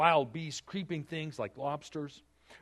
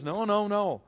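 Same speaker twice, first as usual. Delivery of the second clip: loud, high, firm no, no, no; stubborn shouted refusal; emphatic refusal; 8 semitones higher, 7 dB louder, slower than usual. Acted. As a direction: Peter digging his heels in, refusing loudly. Peter refusing God's command.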